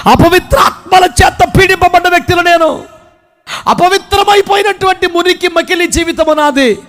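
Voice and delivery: impassioned confession of a sinner; Mary Magdalene confessing. Acted. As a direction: confess it like a preached monologue.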